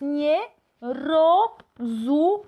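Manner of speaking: drawn-out "rozumiem" with a rising end; slow Polish demo. Shown as a demonstration. Teacher modelling the phrase slowly before translating. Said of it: "No entiendo, no comprendo".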